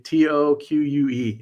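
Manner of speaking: "T O Q U E" spelled slowly, one letter at a time; spelling it out. Shown as a demonstration. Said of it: "what do you call it?".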